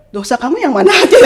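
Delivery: asking through a laugh, fast; quick amused question, laughing. Retold or imitated. Mother laughing as she asks her son his sins.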